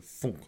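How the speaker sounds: soft, hollow hit sound; imitated arrow thunk. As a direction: mimic a muffled thunk on impact. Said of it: "like, that noise".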